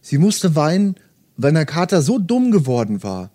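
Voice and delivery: steady audiobook narration with light character voices; story reading. Acted. Host reading Murakami to podcast listeners, calm narration. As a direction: read the novel passage aloud, calm and even. Reads novel aloud to listeners.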